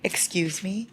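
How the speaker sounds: breathless whisper: "Excuse me?" rising; stunned whisper, question lifting; whispered disbelief. Real, not acted. Reader stunned by a romantic line, whispering.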